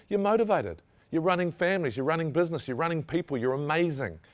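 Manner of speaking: lifted, emphatic cheerleading; rousing praise. Real, not acted. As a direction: hype up the audience. Pumping up audience.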